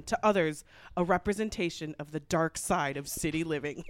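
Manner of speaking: ominous Dateline-style voiceover; true-crime narrator. Acted.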